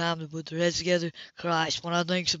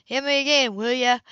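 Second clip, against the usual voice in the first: loud order; 5 semitones higher, 6 dB louder than usual. Acted. Ordering a drink loudly.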